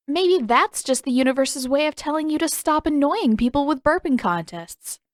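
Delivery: superior and above it all, pitched high; lofty. A narrator's reading. Katara to her teasing brother, lofty and superior. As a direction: answer down your nose at him. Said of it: "she answered loftily".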